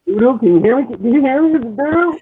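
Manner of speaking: muddy, muffled mic. Real, not acted. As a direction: voice as if through a wall. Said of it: "You're really, like, very muddled right now".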